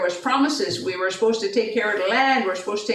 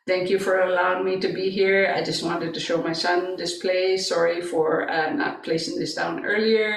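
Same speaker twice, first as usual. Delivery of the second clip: humble prayer; 3 semitones lower than usual. Retold or imitated. Humble thanks and apology in prayer.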